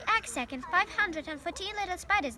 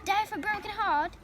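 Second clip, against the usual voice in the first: higher, sneering copy of the pig's words; mimicking; 6 semitones higher, 3 dB louder than usual. A narrator's reading. Rat mocking the pig's heartbreak, sneering mimicry. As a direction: throw his words back mockingly. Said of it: "he mimicked".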